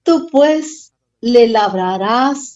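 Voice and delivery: choked up reading "le labrarás", barely getting it out; tearful reading. Real, not acted. Pastor reading scripture to the congregation, choking up with tears. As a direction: voice catching with tears, slowing down. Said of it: "con lágrimas en los ojos".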